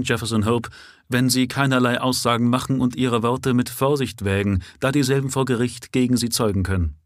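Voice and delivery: a hint of a dry, official inspector reading out a caution; matter-of-fact officer doing his duty; lightly voiced police inspector. Inspector formally warning the prisoner, lightly voiced officialdom.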